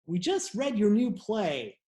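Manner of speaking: high, slow mock cop; hammed-up friendly cop, drawn out. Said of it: "they're like".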